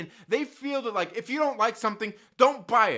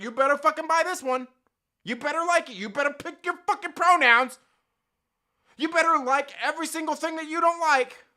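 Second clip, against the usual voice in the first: higher, louder finger-wagging lecture, building; hammed-up scold of a self-righteous crowd; mock scolding a gamer for his taste, higher and building louder; 5 semitones higher, 5 dB louder than usual. Mocking online scolds wagging fingers.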